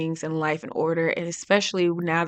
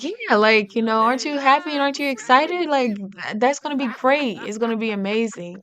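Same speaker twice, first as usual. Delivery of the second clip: eager, higher and louder, bursting with good news; excited; 5 semitones higher, 3 dB louder than usual. Acted. Fiancé telling his bride-to-be the news, excited. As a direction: sell the surprise like it's the best idea ever. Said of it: "saying it with so much excitement".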